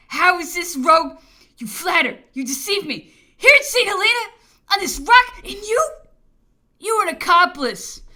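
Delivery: loud, high mock outrage; hammed-up scolding of the servant. Emperor mock-scolds servants, comically.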